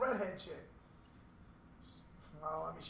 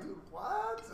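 high-pitched baffled question; mock disbelief; 13 semitones higher than usual. Telling friends how he reacted to the husband news, incredulous. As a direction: voice leaping up in exaggerated bafflement.

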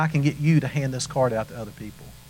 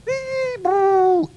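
high, thrilled whoop as you leap; gleeful jump whoop; 5 dB louder than usual. Retold or imitated. Kid jumping off a bridge into the lake, high gleeful whoop.

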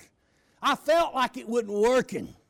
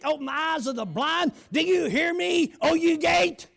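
loud, rising preacher's command, slowing at the end; forceful preaching decree; 3 semitones higher, 4 dB louder than usual. Retold or imitated. Preacher commanding the gate to open, loud decree. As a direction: thunder it at the gate with full faith.

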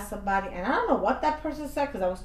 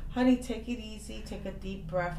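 soothing; 3 dB quieter than usual. Retold or imitated. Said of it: "I said".

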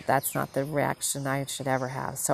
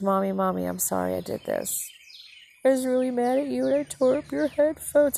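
high-pitched mock-tearful little girl; imitating crying child; 8 semitones higher than usual. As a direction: retell a small child's tearful apology, pitch climbing. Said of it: "I heard her start to cry".

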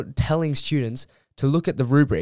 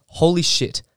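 shocked exclamation; 5 semitones higher, 4 dB louder than usual. Retold or imitated. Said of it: "I was like".

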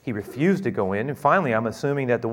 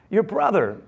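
excited servant; 6 semitones higher than usual. Acted. Servant announces.

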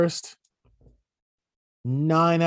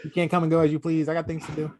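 imitating Dexter. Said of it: "You sound like, Dexter".

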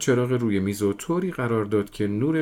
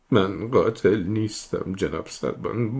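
pleading. Acted. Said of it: "با پریشونی به التماس افتاد".

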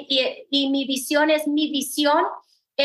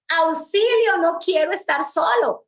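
mock cry for help; 3 semitones higher than usual.

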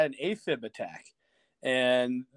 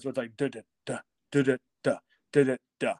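heartbeat imitation; faster than usual. Shown as a demonstration. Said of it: "the top is beating twice".

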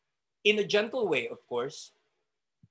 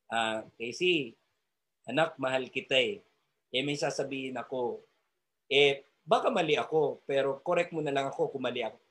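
gentle correction; 4 semitones lower than usual. Shown as a demonstration. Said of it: "So practice, practice ha".

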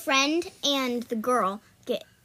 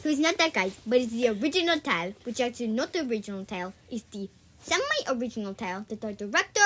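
lightly put-on foreign accent; amateur mock Spanish-cat accent; Puss in Boots accent; 3 semitones lower, faster than usual. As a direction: play at a vague foreign accent. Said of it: "talking in a Puss in Boots accent".

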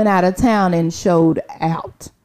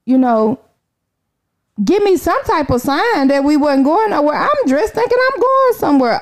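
livid complaint; 6 semitones higher than usual. Retold or imitated. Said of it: "Oh, I was livid".

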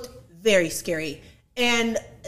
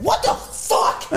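shocked whisper; 11 semitones higher, 3 dB louder, much slower than usual. Retold or imitated. Shocked on seeing the customer.

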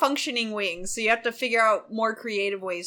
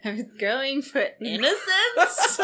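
laughing; 2 semitones higher, 3 dB quieter than usual. Real, not acted. Laughing while explaining.

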